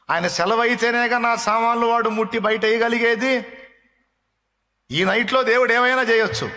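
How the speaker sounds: high, ringing preacher's cry; fervent pulpit exhortation; full-force preaching. Acted. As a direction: preach it out to the whole hall. Preacher exhorting congregation loudly.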